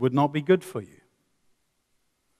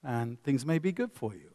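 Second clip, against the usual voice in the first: calm and reasonable. Retold or imitated. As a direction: gently invite him back to the curb. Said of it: "I could say it like that".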